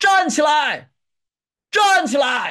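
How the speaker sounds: loud high shouting. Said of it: "站起来，在那儿大声喊".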